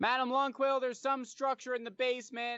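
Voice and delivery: very high, carrying yell. Heading back upstairs to reach the companions, yelling to Madam Longquill. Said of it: "I'm gonna start yelling".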